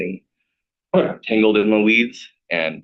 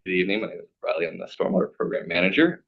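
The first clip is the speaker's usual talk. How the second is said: raspy voice; faster than usual. Real, not acted. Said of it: "excuse my raspy voice".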